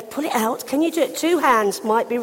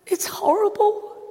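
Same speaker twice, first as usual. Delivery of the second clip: high whispered sympathy; whispering how horrible earache is; 10 semitones higher than usual. Acted. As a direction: breathe it out in sympathy. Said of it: "sympathising about earache".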